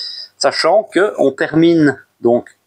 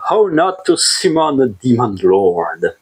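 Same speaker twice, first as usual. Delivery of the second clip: English title in a French speaker's English accent; slower than usual. Real, not acted. YouTuber showing off the manga title to viewers, English accent. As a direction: say it slowly in a showy English accent. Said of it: "vous aimez mon accent anglais".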